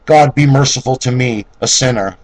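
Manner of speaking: a sinner's plea lifted loud and high; crying out for mercy. Acted. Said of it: "smarts and criest out".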